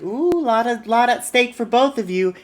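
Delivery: high mock-impressed "ooh"; teasing. Acted promoter teases the two rivals.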